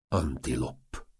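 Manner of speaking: slow, low, soft endearment; amorous escalation. A narrator's reading. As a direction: draw out the pet name lovingly and softly. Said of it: "fokozta a gróf".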